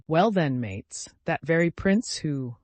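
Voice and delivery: slow build to an emphatic "who"; stress on WHO. A narrator's reading. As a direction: lean hard on the final word "who". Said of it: "with a strong emphasis on the word who".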